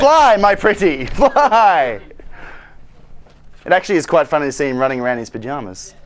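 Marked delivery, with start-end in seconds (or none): 0.0-2.0 mock witch. Quoting the wicked witch.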